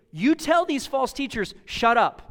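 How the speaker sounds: high, forceful order building to a punched "Shut up"; acted pulpit command, "Shut up" hit hard; emphatic command. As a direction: land "Shut up" loud and final. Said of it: "This is the emphasis that, that, that Paul is telling".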